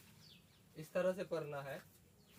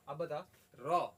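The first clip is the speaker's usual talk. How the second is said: slow, louder prompt to the pupil; slow teacher prompt; 6 dB louder, much slower than usual. Shown as a demonstration. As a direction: draw out the question for the pupil. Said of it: "teacher drills the letter". (धीमे और ज़ोर से सवाल पूछना)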